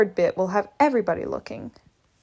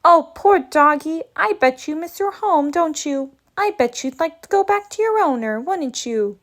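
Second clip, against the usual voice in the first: higher-pitched sympathy for a pet; syrupy, sing-song pity; pitying coo; 5 semitones higher than usual. Acted. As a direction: coo over the poor doggy. Mock pity for homesick dog.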